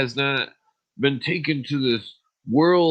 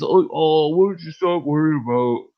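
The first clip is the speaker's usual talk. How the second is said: mocking whiny friends; 5 semitones higher, 6 dB louder than usual. Mocking friends who brush him off.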